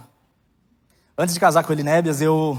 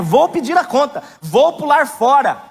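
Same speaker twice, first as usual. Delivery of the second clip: higher, slow, imitating a despairing plea; desperate prayer; 6 semitones higher, 5 dB louder, much slower than usual. Pastor retells his tearful prayer to God, imitating despair. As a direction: re-enact begging God to let you quit. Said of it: "A minha oração era essa".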